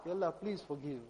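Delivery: softly pleading for forgiveness; heartfelt plea. Acted. Worshipper begging Allah for forgiveness, soft heartfelt plea. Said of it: "till the, the feeling comes in the heart".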